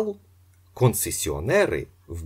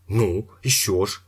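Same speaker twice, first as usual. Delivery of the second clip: shout; 4 dB louder than usual. A narrator's reading. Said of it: "закричав Іпполит Матвійович".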